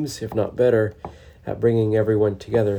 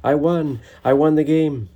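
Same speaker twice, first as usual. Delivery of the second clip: higher, gleeful hollering; hooting and hollering; 5 semitones higher, 4 dB louder than usual. A narrator's reading. Yip scrambling off after being told he won, gleeful hollering. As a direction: crow it out like a happy child. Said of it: "hooting and hollering".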